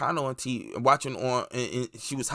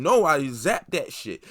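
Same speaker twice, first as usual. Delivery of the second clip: slow, amused mock admission, laughing through it; 2 semitones higher, 5 dB louder, slower than usual. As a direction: tell it with a chuckle, drawing it out. Retold pilot killed, laughing.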